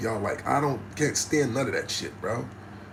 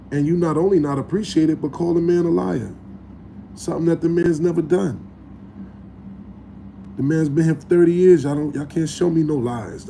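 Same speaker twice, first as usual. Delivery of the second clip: heated rant; 3 semitones higher, 4 dB louder than usual. Real, not acted. Heated rant about being called liar.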